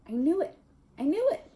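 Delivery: rising, excited repetition; shrill with triumph; triumphant. A narrator's reading. Triumphant discovery.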